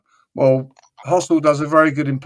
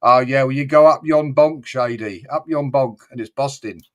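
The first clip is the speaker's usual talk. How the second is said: put-on Black Country accent. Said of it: "It's Yam Yam from the Black Country".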